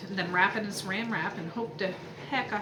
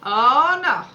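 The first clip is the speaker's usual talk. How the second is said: loud, playful oh no; mock alarm; 5 semitones higher, 10 dB louder, slower than usual. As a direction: ham up the dismay, loud. Mom playfully answering toddler's oh yeah.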